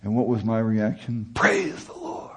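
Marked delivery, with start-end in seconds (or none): 1.3-2.3 high, bright mock cheer of praise; mock cheerful praise. Preacher mocking his own naive reaction, high mock cheer. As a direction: toss it off high as the easy, naive response. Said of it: "I'm saying".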